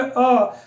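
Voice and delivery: "अ" short with the lips relaxed; a quick neutral "अ"; short a vowel. Shown as a demonstration. Teacher showing students the lip position, short "अ". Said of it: "हम बोलेंगे".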